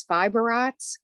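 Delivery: Boston accent, "arts" said "ahts" with no r; Boston "fiber arts", r dropped. Real, not acted. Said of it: "the Boston accent coming out".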